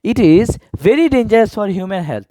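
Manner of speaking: very slow, word-by-word answer; slow dictation. Shown as a demonstration. Teacher testing the answer sentence slowly for students. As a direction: read the finished sentence out slowly. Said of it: "very বসায় দেখো হয় কিনা".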